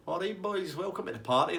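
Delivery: high, easy-going Tasty Dave voice; chilled-out party host. Retold or imitated. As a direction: imitate an unbothered host greeting guests. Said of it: "he's totally fucking chilled out".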